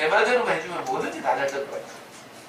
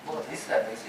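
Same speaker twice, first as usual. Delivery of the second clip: a hint of a coaxing serpent, softer; tempting whisper; 6 dB quieter than usual. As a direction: murmur the temptation gently. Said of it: "이렇게 속삭여요". (살짝 부드럽게 속삭이는 유혹)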